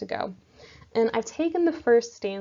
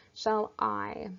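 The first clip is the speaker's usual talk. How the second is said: "shall I" with a short, softer "shall" and a longer, stronger "I"; stress on I; 3 dB quieter than usual. Shown as a demonstration. Teacher sounds out the first two syllables, stress on "I". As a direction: lean on "I" in "shall I". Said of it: "I, is softer and quieter".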